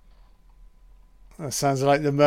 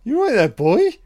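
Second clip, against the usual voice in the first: pop singer impression; 2 semitones higher, 5 dB louder than usual. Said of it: "the singer said".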